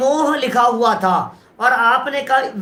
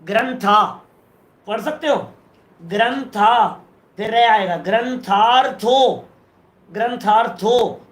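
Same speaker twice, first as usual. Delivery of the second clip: slow reading aloud; 2 semitones lower than usual. Shown as a demonstration. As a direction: read ग्रंथार्थो slowly, syllable by syllable. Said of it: "पहला अक्षर पढ़ो". (धीरे-धीरे अक्षर पढ़ते हुए)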